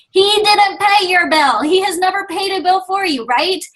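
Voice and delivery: acted-out dismissive comeback; who-cares attitude. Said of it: "who cares attitude".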